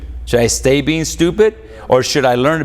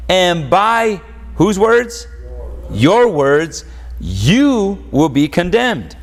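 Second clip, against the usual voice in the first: raised, emphatic pulpit delivery; preaching; 4 semitones higher than usual. Acted. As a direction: hammer each phrase of scripture home. Preaching scripture with force.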